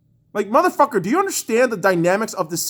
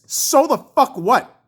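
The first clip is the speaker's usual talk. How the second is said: angry dismissal; 3 semitones higher, slower than usual. Real, not acted. First take of escalating retort.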